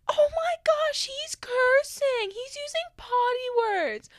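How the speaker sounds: put-on very high, slow, loud child voice; drawn-out scandalized kid tattling. Teacher mimicking kids reporting a classmate's cursing, high tattling. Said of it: "all the kids were like".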